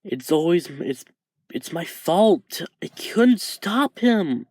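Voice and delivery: each name hits harder as he nears crying; tearful self-blame. Acted. Izuku listing family he failed, close to tears. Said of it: "Izuku starting to cry a little".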